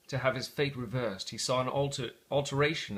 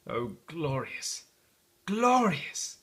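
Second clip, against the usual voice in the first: delighted exclamation; much slower than usual. Acted. Scrooge delights at morning.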